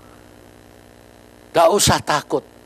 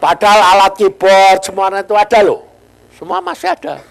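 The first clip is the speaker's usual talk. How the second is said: 1 laughing; 5 semitones higher, 8 dB louder than usual. Real, not acted. Laughing over odd robbery.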